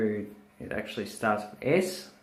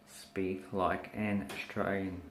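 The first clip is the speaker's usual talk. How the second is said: slow model phrase; 3 semitones lower, 7 dB quieter than usual. Shown as a demonstration. Models Australian phrase slowly for learners.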